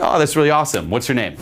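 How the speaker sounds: bossy command. Shown as a demonstration. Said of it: "Bossing the girl around".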